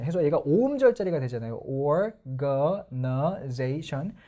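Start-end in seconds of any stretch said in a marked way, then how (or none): 1.6-4.2 organization very slow and rising; slow-motion organization; slow stress demo. Shown as a demonstration. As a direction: drag out organization to show both stresses. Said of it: "사음절 이상".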